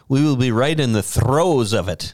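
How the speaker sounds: theatrical, rolling thespian delivery; trained thespian actor. Real, not acted. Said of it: "like a trained thespian actor".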